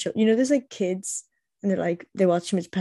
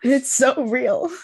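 emphatic; 5 semitones higher, 5 dB louder, much slower than usual. Real, not acted. Drawn-out agreement.

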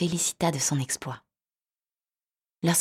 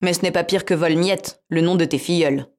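cat voice; 6 dB louder than usual. Acted. Cat voiced in fairy tale.

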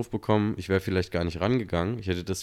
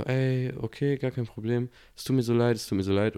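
apologetic friend; 5 semitones higher than usual. Retold or imitated. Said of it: "Und sie war so".

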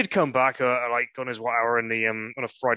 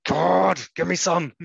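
longing plea; 6 semitones higher, 5 dB louder, slower than usual. Retold or imitated. Craving reaction while watching film.

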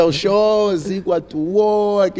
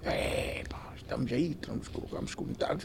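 hushed, near-whispered aside; retold confiding; 4 semitones lower, 14 dB quieter than usual. Reporting back to his friend, hushed and confiding. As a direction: drop right down as if tipping off a mate.

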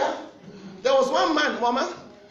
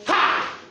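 sharp shout at dog. Shown as a demonstration. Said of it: "But stand and do".

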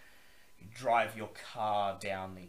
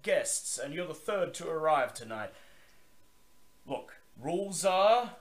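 higher, louder gruff gatekeeper; gruff male voice; 8 semitones higher, 6 dB louder than usual. Acted. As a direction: bark it like a gruff guard. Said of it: "he says".

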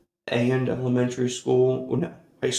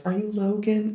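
higher voice for the teacher; lightly voiced teacher asking his name; a hint of a polite teacher; 9 semitones higher than usual. Teacher voiced in retold story.

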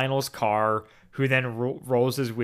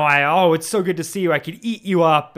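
gushing; 3 semitones higher, 5 dB louder than usual. Acted.

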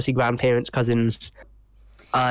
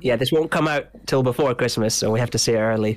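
blocked nose. Real, not acted. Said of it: "if my voice sounds a bit stuffy".

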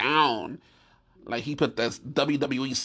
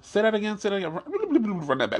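disbelieving demand; 6 semitones higher than usual. Acted. Demanding to hear the news again.

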